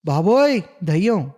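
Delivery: sudden high, loud cry of fright; panicked scream at a ghost in the dark; terrified shout. Acted. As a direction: yell it out as if you just saw a ghost. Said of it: "అని అరిచి".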